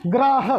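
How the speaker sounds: ग्राह with गा clipped short and रा held long. Shown as a demonstration. Teacher shows students how ग्राह is said, रा held long. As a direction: say ग्राह with a quick half ग and a drawn-out रा. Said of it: "गा को आधी देर बोलेंगे और रा को हम पूरी".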